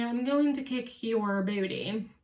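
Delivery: toned-down, polite version of a threat; mock polite. Daughter retelling mother's threat cleaned up, mock polite. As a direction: deliver the threat with mock courtesy. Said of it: "she just kind politely tells me this".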